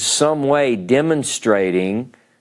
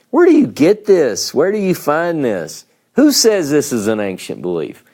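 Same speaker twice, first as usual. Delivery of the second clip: higher, emphatic disbelieving questions, easing by the end; incredulous challenge; 4 semitones higher than usual. Acted. Speaker challenging commentators who claim an ancient belief, incredulous. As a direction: demand to know the source.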